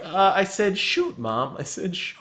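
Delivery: lightly voiced kid backpedaling to mom; kid covering up. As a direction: play a caught child's feeble excuse. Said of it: "And you're like".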